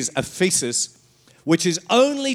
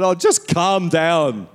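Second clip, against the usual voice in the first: slow mock soothing; 5 dB louder, slower than usual. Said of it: "And I said".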